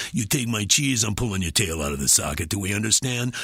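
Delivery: lightly voiced mob-boss rat; a hint of a threatening boss rat, brought down a notch. Voice actor demonstrating the boss rat, lightly menacing. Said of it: "boss rat, so bring him down a notch".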